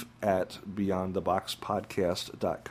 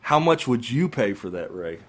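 infomercial. Pretend. Mock infomercial pitch.

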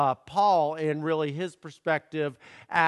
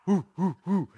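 mock frat chant hoo hoo hoo; short party hoots like a fraternity; frat boy hooting; 2 semitones higher than usual. Shown as a demonstration. Pastor imitating frat boys cheering, quick hooting. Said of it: "like the frat boys".

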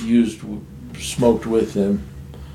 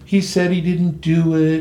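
higher-pitched voice of reproachful relatives; imitated family scolding; 6 semitones higher than usual. Family confronts him for jailing his brother, imitated reproach. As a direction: mimic relatives protesting in disbelief.

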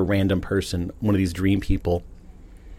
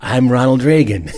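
Ronald Reagan voice; 3 semitones higher than usual. Retold or imitated. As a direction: talk like an old president. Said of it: "And I was talking like that in a dream".

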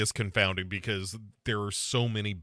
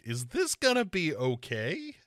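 higher, uneasy retold question; mock worried question; 5 semitones higher than usual. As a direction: ask it with rising doubt. Acts out own doubt while watching.

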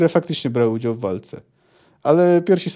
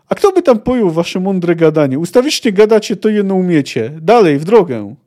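impatient; 3 semitones higher, 6 dB louder than usual. Acted. Milwa brushes off the men.

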